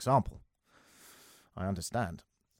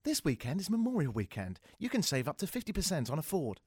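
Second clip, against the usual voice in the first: mock car ad; 4 semitones higher, 7 dB quieter than usual. Imitates tasteless car ad.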